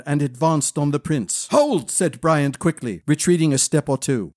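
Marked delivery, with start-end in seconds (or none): 1.5-1.9 sharp shout. Acted. Prince stops sword attack.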